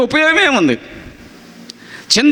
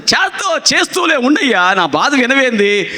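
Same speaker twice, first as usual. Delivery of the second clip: dismissive caller; 2 semitones higher than usual. Retold or imitated. Caller brushes off the prayer.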